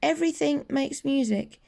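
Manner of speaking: a kind cricket nudging Gerald along; wise little cricket. Acted. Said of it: "coughed a cricket".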